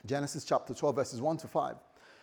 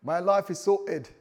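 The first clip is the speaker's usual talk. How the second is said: louder, emphatic South London slang; South London accent; 3 semitones higher, 6 dB louder than usual. Acted. Preacher imitating an excited South Londoner, South London accent. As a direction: put on a bit of South London. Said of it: "South London".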